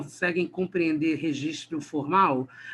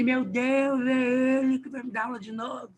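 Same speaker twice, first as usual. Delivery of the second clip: mock student dismay; 7 semitones higher than usual. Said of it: "eu falei assim".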